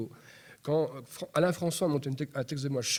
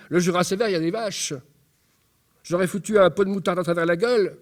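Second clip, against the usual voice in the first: loud, raised, indignant outburst; agitated monologue character; 5 semitones higher, 9 dB louder than usual. Acted. A worn-out parent rants loudly about being judged. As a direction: spill over in an angry torrent of words. Reads his monologue aloud.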